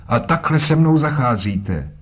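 put-on old man complaining to the two men; indignant old man. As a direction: protest at the rough treatment.

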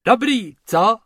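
high, loud amused brag; chuckling boast. Acted. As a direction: brag with a laugh in it. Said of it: "smál se".

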